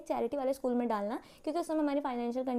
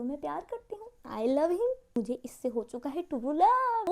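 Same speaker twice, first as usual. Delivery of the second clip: dreamy lovestruck; slower than usual. Retold or imitated. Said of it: "मुझे ऐसा हो गया कि".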